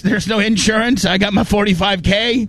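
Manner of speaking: high, teasing show-off voice; mock show-off. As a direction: lightly play a cash-rich client. Playing a vain cash client.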